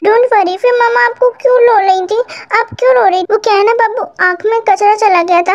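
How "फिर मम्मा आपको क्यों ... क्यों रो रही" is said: put-on higher, puzzled little-boy question; childlike Kookie. Kookie asks mama why she cried, higher child voice. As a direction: ask like a curious small child.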